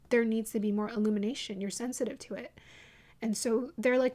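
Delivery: usual speaking voice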